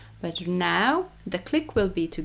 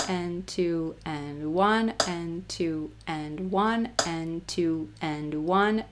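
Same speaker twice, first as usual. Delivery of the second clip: slow counting; 2 semitones lower, slower than usual. Shown as a demonstration. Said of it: "counting out loud one and two".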